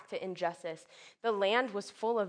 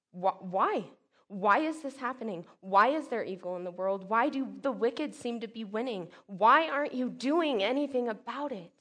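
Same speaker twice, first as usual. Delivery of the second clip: crying out; 2 semitones higher, 4 dB louder than usual. Acted. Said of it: "What is he crying out?".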